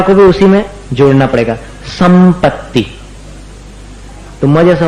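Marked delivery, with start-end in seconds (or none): 1.9-2.9 संपत्ति with lips closed, म before प; m-like anusvara demo. Shown as a demonstration. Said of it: "दोनों ओठ को मिलाकर".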